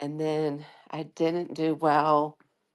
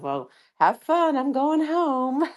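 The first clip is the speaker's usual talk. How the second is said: breezy goodbye; 11 semitones higher, slower than usual. Retold or imitated. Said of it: "I said".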